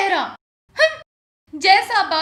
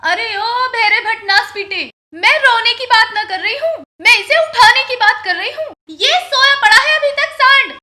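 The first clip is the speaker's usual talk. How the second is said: scolding; 4 dB louder than usual. Acted. Wife scolding deaf husband.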